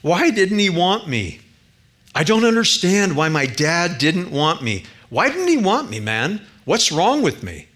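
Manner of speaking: a touch of sobbing, pleading why over and over; mild sobbing plea. Retold or imitated. Preacher voicing Jason asking why his dad didn't want him, with a hint of sobbing. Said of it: "as he sobbed".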